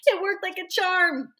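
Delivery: high, loud, crowing triumph; manic glee. A narrator's reading. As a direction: whoop it out like a gleeful maniac. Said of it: "laughing like a maniac and saying".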